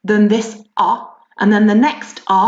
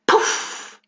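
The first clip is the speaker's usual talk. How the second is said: puffed sound effect; 3 dB quieter than usual. Shown as a demonstration. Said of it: "It says".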